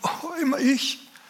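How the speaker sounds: mock weeping, self-pitying, very high and whiny.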